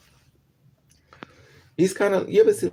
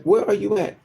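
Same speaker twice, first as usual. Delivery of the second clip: mild mock yell, higher pitched; retold phone scream; 6 semitones higher, 3 dB louder than usual. Woman yelling at drunk friend by phone, mildly raised. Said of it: "I'm screaming at him on the phone".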